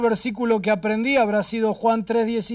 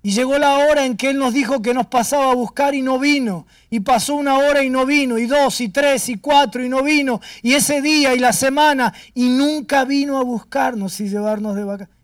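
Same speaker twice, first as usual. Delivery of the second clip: tearful retelling; 3 semitones higher than usual. Retold or imitated. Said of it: "Y lloraba".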